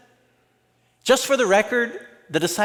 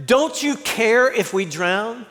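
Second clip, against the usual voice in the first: mild mock shouting; 4 semitones higher than usual. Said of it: "woke Jesus up by shouting".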